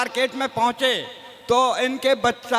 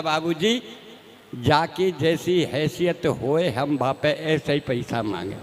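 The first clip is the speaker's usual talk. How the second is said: pleading beggar; 8 semitones lower, slower than usual. Retold or imitated. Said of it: "भिखारी हाथ जोड़ के मेरे से बोला".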